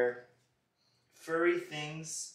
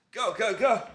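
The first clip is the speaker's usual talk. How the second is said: excited; 7 semitones higher, 11 dB louder than usual. Real, not acted. Dad urges excitedly.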